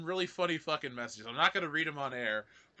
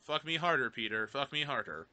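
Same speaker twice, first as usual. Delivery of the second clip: lightly done computer monotone; Microsoft Sam. Acted. Host mimicking old computer speech feature, loose monotone. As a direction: read it like old text-to-speech. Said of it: "This is Microsoft Sam".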